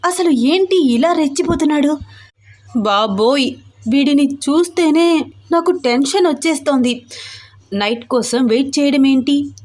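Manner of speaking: put-on mildly agitated young wife, pitch lifting; a hint of exasperated heroine; lightly voiced flustered heroine. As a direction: grumble to yourself, a touch flustered.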